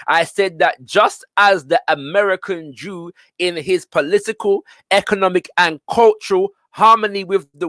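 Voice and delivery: declaimed quotation; reading aloud. Acted. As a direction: read the passage out to a class, stressing key words. Reads autobiography aloud to class.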